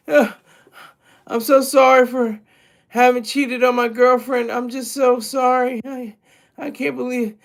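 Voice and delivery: a hint of whiny, weepy remorse, only lightly done; mock teary apology. Mocking the athlete's public apology, lightly whiny. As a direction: imitate a sorry cheater pleading, half-hearted sobbing. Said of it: "He wasn't boo-hooing and crying".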